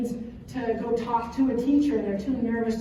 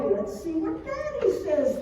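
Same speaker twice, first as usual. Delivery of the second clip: higher, slow coaxing mom voice; sing-song deflection; 6 semitones higher, slower than usual. Retold or imitated. Mom stalling her crying son, coaxing and slow. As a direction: stall him sweetly, drawn out. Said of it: "I tried the whole, like".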